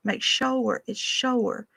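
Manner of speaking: "sure" said as "shoo-er", a long drawn vowel; mountain pronunciation. Shown as a demonstration. The boy playing Zeke repeating the local sure. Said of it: "You're supposed to say".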